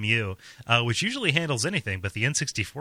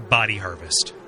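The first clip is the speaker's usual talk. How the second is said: creepy bee voice; 5 semitones lower than usual. Pretend. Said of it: "And he is saying".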